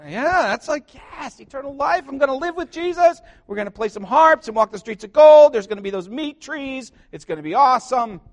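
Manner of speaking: high, bubbly voice gushing about heaven; mock giddy excitement. Preacher playing a giddy believer picturing heaven, high and gushing. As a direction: gush like a kid dreaming of heaven.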